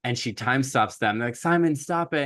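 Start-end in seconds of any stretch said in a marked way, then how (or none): 1.4-2.2 mock urgent plea. Party begs Simon for help.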